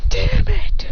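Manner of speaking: high, sharp "Damn it!" outburst; exasperated curse. Acted. Acted character cursing in fight.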